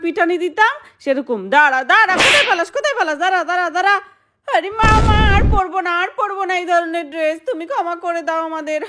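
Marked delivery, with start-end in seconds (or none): 1.6-4.0 raised, higher scolding mother's voice; angry mother. Acted. Mother chasing her grown daughters, angry raised calls. 4.5-8.8 high, begging daughter's voice; pleading daughter. Acted. Daughter caught in a swimsuit begs her mother, high pleading.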